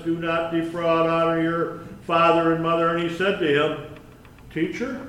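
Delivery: formal public scripture reading. A narrator's reading. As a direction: read it out, commandments in an even list. Reads the passage aloud.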